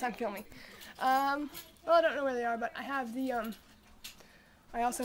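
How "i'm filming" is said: laughing. Real, not acted. Caught filming, laughs.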